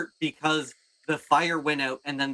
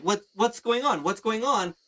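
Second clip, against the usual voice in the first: bewildered reaction; 6 semitones higher than usual. Acted. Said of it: "you have your hands out".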